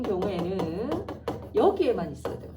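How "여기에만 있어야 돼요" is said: "여기에만" hit firmly, then falls; stress on 여기에만. Shown as a demonstration. Teacher stressing where the pronoun goes, stress on "여기에만". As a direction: punch "여기에만". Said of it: "stresses 여기에만".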